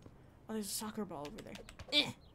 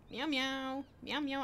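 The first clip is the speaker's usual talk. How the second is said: lightly voiced cat, higher pitch; pretend cat meows; 4 semitones higher, slower than usual. Player posing as a normal cat to a person, mock meowing. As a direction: meow playfully in a human voice.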